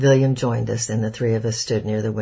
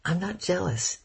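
roaring; 7 semitones higher, 5 dB quieter than usual. A narrator's reading. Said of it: "I roared".

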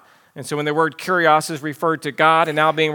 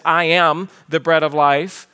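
"I am" leaned on firmly; weight "I am" as a solemn claim; emphasis on I AM. Retold or imitated. Preacher quoting Jesus in John, great emphasis on "I am". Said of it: "stated with great emphasis".

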